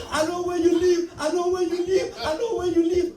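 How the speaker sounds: high, loud, threatening chant; menacing threat. Retold or imitated. The washer threatening the driver, loud and menacing. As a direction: threaten him again and again. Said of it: "He's like".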